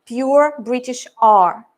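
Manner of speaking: slow "pure British R", the British way. Shown as a demonstration. Teacher showing the British R students use. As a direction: say "R" slowly in British accent. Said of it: "some of them tend to use R".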